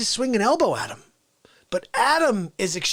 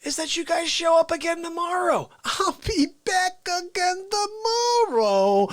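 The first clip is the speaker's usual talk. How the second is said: Fauci character voice; 7 semitones higher than usual. Acted. Fauci character catchphrase at open.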